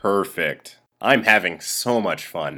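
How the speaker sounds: low, slow, flat canned clip voice; deadpan spliced-in voice; flat robotic clip voice. Pretend. Post Brandon edited-in voice.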